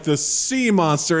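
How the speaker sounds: "sea" drawn out and leaned on; slow, loaded emphasis on "sea"; stress on sea. Retold or imitated. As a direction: say "sea" like a taboo word, stretched. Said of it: "saying it like the C word".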